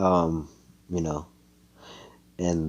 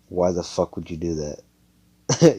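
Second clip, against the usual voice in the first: mocking drawn-out; 4 dB louder, slower than usual. Asa voicing mocking laughs.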